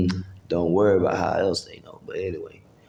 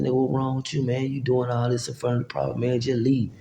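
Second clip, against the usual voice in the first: higher-pitched exasperated retort; pitched-up retold confrontation; retold heated argument; 5 semitones higher than usual. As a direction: replay yourself arguing him away. Acting out his side of confrontation.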